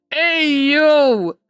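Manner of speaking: high, loud, drawn-out hoot of surprise; amazed exclamation. Real, not acted. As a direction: call it out high and loud in astonishment. Reacting to cake on screen.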